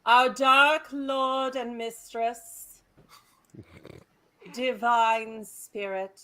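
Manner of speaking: slow, drawn-out mock invocation; solemn dark-ritual parody; mock satanic prayer. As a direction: intone a satanic prayer with long pauses. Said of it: "deliver that satanic prayer".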